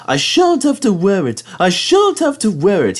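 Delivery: high, pleased little engine puffing. Acted. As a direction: puff it out, pleased with himself. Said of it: "he puffed to Annie and Clarabel".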